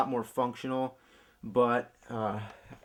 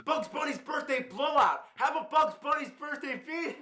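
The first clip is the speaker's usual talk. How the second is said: cartoon announcer. Game title in cartoon voice.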